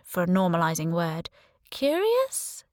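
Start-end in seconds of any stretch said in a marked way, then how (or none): 1.7-2.6 tentative question. Acted. Becky offers word, questioning.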